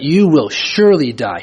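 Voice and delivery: firm, weighty stress on "surely"; emphasis on SURELY. Shown as a demonstration. Preacher explaining God's warning, emphatic stress on "surely". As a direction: lean hard on "surely" before "die". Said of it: "He's putting emphasis on that".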